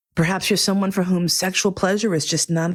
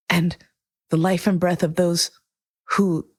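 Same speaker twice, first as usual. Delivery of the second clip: choking up mid-sentence, real tears rising; the words catch as emotion takes over; voice breaking. Real, not acted. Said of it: "I just broke down".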